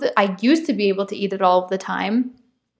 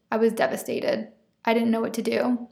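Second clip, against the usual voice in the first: softer, falling repeat; quiet; 6 dB quieter than usual. Shown as a demonstration. Telling viewers the news devastated her, quiet repeat. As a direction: let it sink in, barely spoken. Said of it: "and I was devastated".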